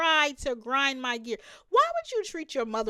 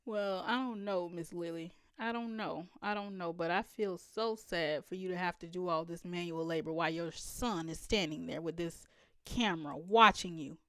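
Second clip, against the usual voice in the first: softly saddened; 6 semitones lower, 10 dB quieter than usual. Real, not acted. Sad pity for Miss Lily.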